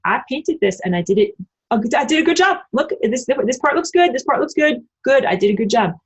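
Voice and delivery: mock-proud, high-pitched bragging about a painting; proud artist. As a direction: show off your own artwork like a delighted kid. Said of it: "you say".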